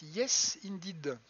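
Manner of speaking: English words in a French accent; poor English accent from a French speaker. Real, not acted. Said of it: "mon accent anglais est absolument terrible".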